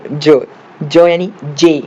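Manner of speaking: "जो, जो" stretched slowly, each syllable held; slowly sounding out. Shown as a demonstration. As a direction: draw out "जो" to show the J sound. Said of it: "जे का उच्चार हो रहा है". ("जो, जो" धीरे-धीरे खींचकर)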